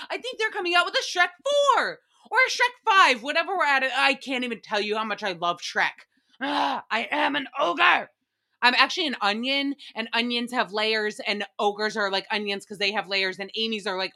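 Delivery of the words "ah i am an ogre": ogre roar. Pretend. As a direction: roar it like a hammed-up Shrek. Gushing about Shrek.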